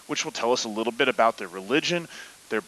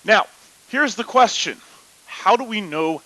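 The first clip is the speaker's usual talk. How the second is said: football announcer voice; 8 semitones higher, 5 dB louder than usual. Pretend. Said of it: "his football announcer voice".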